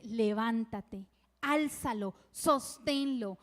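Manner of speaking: an angel comforting a desperate mother from heaven, slow and solemn. Retold or imitated. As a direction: pronounce each word like a heavenly promise. The Lord speaks to the mother.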